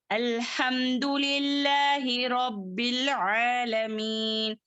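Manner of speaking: slow, level-toned verse with elongated vowels; Quran recitation. Shown as a demonstration. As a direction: recite measuredly, holding the long syllables.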